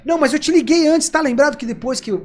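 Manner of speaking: rising without animosity. Shown as a demonstration. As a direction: raise the voice along with the customer's. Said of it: "a entonação sobe junto, mas não a animosidade".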